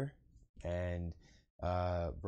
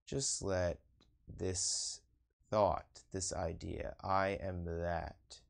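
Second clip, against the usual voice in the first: measured meditation-teacher delivery, pausing between phrases; guided meditation. Acted. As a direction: lead them inward in unhurried, spaced-out phrases.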